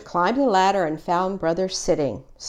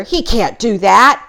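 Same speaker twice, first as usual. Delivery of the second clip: louder, furious grumble; angry growl; 3 semitones higher, 7 dB louder than usual. A narrator's reading. Brother growling about Fred taking his bike. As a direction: fume that it isn't allowed. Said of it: "growled Brother".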